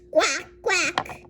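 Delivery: loud paired quacks; eardrum-hurting duck. Pretend. Duck bothering the food truck, loud quacking. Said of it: "My eardrums hurt".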